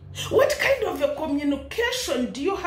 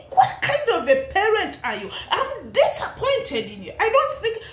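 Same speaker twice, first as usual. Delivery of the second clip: laughing scold; 6 semitones higher than usual. Real, not acted.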